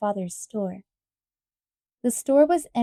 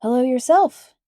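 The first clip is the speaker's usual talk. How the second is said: cheery voice; 2 semitones higher, 8 dB louder than usual. A narrator's reading. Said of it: "answered a cheery voice".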